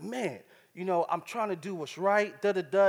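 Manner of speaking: mild mock frustration. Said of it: "flipping out on the phone".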